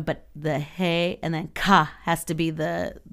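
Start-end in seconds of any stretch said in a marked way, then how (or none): 0.6-1.9 "he" then a strongly emphasized "ka"; stress on ka. Shown as a demonstration. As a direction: sound out "he", then punch "ka". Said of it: "the big emphasized portion of it".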